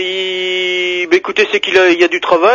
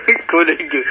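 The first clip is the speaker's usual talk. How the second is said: laughing. Real, not acted. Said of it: "Qu'est-ce qui vous fait rire?".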